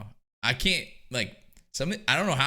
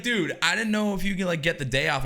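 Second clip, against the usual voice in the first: buddy sounding unsure; 7 semitones higher than usual. Retold or imitated. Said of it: "he's like".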